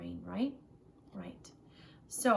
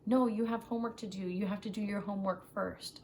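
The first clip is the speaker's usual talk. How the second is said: imitating a parent saying no. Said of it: "I would feel angry more often, like".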